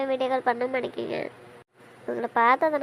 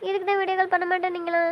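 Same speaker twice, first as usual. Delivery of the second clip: anxious pleading; 3 semitones higher than usual. Acted. Wife sees husband's bandaged head.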